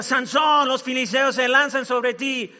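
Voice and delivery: acted, moderate yell; shouting. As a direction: call out the alarm.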